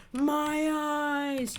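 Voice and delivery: high cartoon cry of pain; cartoon scream. Neptune blinded by the bald head, high cartoon yelp. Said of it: "he's like".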